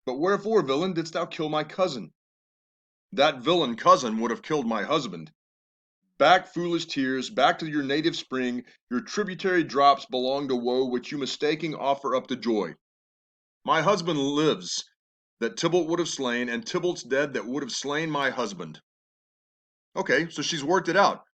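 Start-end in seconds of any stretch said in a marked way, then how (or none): 0.0-2.1 Juliet's lines read with feeling; lightly acted Shakespeare reading; dramatic reading. Reads Juliet's lines aloud. 6.2-18.8 Juliet's lines read with feeling; lightly acted Shakespeare reading; dramatic reading. Reads Juliet's lines aloud.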